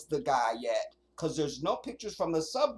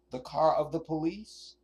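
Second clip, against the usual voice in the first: incredulous repeat. Real, not acted. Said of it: "Nobody talks like that".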